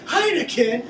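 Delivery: high, loud barked Heineken; dad's loud exasperated cry of Heineken; dad's outburst. Retold or imitated. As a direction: imitate dad bellowing Heineken. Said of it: "He would say it just like".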